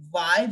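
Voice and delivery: final "Y" said as "ee-grek"; French Y. Shown as a demonstration. Teacher modelling French Y for learners, deliberate. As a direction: say "Y" as "ee-grek", two beats. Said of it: "Y will be pronounced as".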